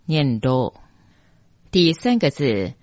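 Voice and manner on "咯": "咯" said lo, Taiwanese-style; Taiwanese reading. Shown as a demonstration. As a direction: say "咯" as a short lo. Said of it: "第二个字用台语念比较接近".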